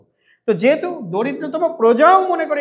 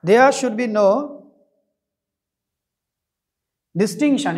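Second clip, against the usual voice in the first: slow dictation; much slower than usual. Shown as a demonstration. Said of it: "distinction মানে কি?".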